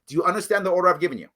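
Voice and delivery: fast, clipped order repeated; mock command; giving orders. Shown as a demonstration. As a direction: say the order briskly. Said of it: "I will say those words".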